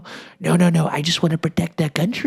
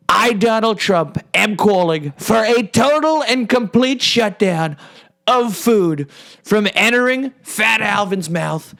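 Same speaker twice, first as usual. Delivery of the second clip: a touch higher, slow solemn proclamation; mock formal proclamation; 4 semitones higher, slower than usual. Trump announcing a food shutdown, slow and solemn. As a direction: declare it like a grand announcement, slowly. Parodies famous shutdown speech.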